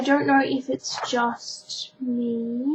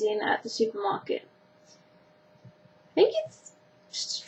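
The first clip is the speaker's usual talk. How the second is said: whispering; 8 semitones higher, 6 dB quieter than usual. Real, not acted. Trails into whisper.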